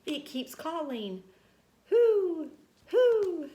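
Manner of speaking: high, loud panicked calling; little mouse scared of a ghost; frightened yell. A narrator's reading. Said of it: "he yelled".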